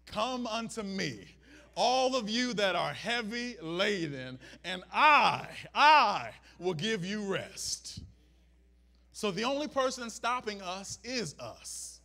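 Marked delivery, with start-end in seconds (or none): 0.0-8.0 slow, steady invitation swelling louder; lightly voiced Jesus. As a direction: offer rest with calm authority. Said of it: "Jesus just stands there".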